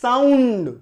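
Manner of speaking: साउंड stretched out slowly; drawn-out syllables. Shown as a demonstration. Teacher showing students the syllables, साउंड said long and drawn out. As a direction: draw साउंड out to show its parts. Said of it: "दो syllable हो गया".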